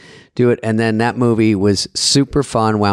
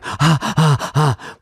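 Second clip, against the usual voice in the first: imitated panicked gasps; 4 semitones higher, much slower than usual. Imitates panic during a one-shot take.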